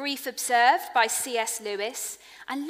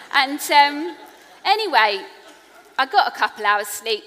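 bright pivot back; 4 semitones higher, 11 dB louder than usual. Real, not acted. Loud recovery after laugh.

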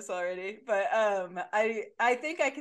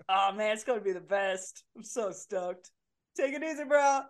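confident bro voice; 3 dB louder than usual. Acted. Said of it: "I believe in myself".

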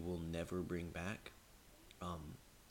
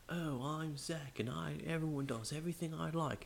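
mocking Zach; 9 semitones higher than usual. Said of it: "I started making fun of him".

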